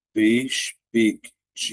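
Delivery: "perspectiva" very slowly, with gaps between syllables; slow classroom breakdown of "perspectiva". Shown as a demonstration. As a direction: break "perspectiva" into separate syllables, closing "pec" on its consonant. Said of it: "Então, vai ficar".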